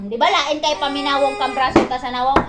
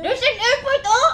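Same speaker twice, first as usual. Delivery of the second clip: imitating; 7 semitones higher than usual. Imitates aunt's line.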